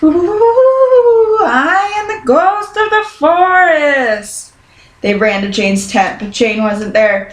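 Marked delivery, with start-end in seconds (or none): 0.0-4.5 high, wavering "ooh"-ing ghost; a dad in a sheet playing ghost; spooky ghost moan.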